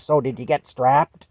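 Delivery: gleeful teacher asking if he got strapped; excited. Retold or imitated. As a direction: ask it gleefully, hoping for bad news. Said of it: "And she's all excited".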